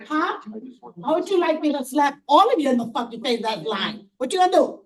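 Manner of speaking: furious protest, voice pushed up; real hysterical outburst. Real, not acted. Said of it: "No, I'm hysterical right now".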